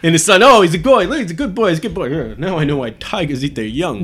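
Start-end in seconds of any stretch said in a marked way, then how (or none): 0.4-2.1 Rodney Dangerfield. Retold or imitated. Quoting Caddyshack.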